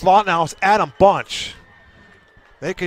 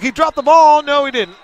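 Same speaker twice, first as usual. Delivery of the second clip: sudden higher, louder exclamation; surprised; 5 semitones higher, 4 dB louder than usual. Real, not acted. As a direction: blurt it out in surprise. Sudden fumble scare on return.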